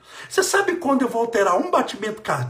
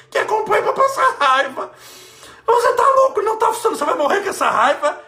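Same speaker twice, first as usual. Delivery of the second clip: much higher and louder, teasing; mocking exclamation; 12 semitones higher, 6 dB louder than usual. Real, not acted. Preacher teasing angry followers, high loud mocking voice. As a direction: tease them, voice leaping up.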